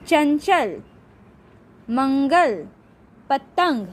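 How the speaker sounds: चंचल, मंगल, पतंग said apart with clear nasal n and ng; nasal anusvara. Shown as a demonstration. Teacher giving examples of nose sounds, nasal चंचल, मंगल, पतंग. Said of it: "नाक से होता है".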